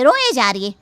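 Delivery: loud, exasperated रोए जा रही है again pressed; fed up, रोए stressed; annoyed repeat. Acted. Wife repeating her complaint to husband, loud.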